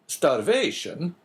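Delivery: slow, stunned, rising "Starvation?"; shocked exclamation. A narrator's reading. Priest recoiling at news of starvation, stunned. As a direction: repeat the word in disbelief. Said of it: "exclaimed the abbé".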